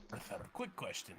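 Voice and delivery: soft unvoiced whisper. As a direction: lean in and whisper it. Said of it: "Let's just whisper".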